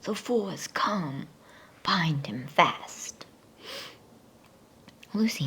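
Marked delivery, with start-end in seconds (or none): 0.0-3.3 whispered witch cry. Acted. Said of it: "she cried".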